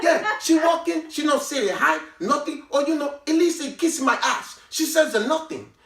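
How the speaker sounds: put-on Latino accent.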